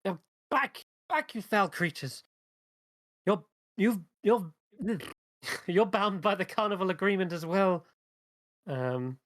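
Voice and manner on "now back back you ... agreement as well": high, agitated shout at foul creatures; acted high-pitched warning cry; character shouting. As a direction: shout them back in a raised pitch. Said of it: "you can hear them shouting".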